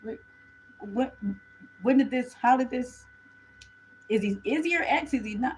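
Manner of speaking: lightly voiced, rising mock shock; mock viewer surprise. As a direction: play the stunned viewer, half-joking. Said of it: "I know what you're thinking".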